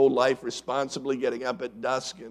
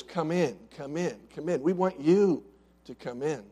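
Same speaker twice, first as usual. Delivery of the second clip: gentle invitation; 5 dB quieter than usual. Retold or imitated. Father gently inviting son.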